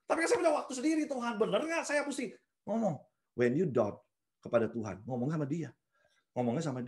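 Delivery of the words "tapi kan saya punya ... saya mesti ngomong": fast, high, fading into a laugh; half-laughing plea to God; mock whiny prayer. (berdoa merengek sambil tertawa kecil)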